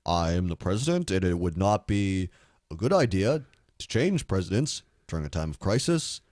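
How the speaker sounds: a lightly voiced Obama, calm and paternal; Obama impression. Obama addressing the nation, low and measured. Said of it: "That's actually a decent Obama impression".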